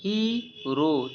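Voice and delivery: "हीरो" as a long "ही", pause, then "रो"; teacher's drawn-out "ही... रो"; split syllables. Shown as a demonstration. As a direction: break "हीरो" in two, very slowly. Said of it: "दूसरा हमारा syllable लगा है रो".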